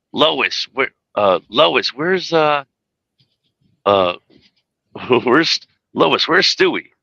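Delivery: high cartoon voice, halting; squeaky Peter Griffin call; high pitch. Shown as a demonstration. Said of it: "in the high pitch".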